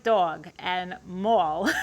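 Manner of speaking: slow Long Island vowels in dog and mall; Long Island accent, drawn out. Shown as a demonstration. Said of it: "with an accent".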